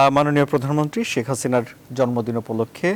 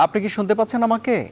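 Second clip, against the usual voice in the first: to someone hard of hearing; 8 semitones higher than usual. Real, not acted. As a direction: call out to a faint listener. Host checks if guest hears. (উঁচু গলায় ডেকে জিজ্ঞেস করা)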